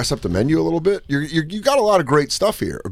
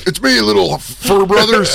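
laughing Hogan voice; 5 semitones higher, 3 dB louder, slower than usual. Retold or imitated. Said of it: "He goes".

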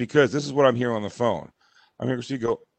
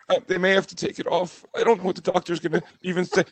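higher, mock-tearful voice; badly faked brave misery; imitated fake cry; 4 semitones higher than usual. Husband imitates wife reporting on her foot, mock tearful. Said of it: "here is how fake her cry is".

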